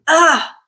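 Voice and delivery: a short effortful ah, as if shoving something heavy; pushing grunt. Shown as a demonstration. Showing learners the sound you make when pushing, effortful ah. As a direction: strain out an ah while pushing. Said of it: "So when we're pushing something".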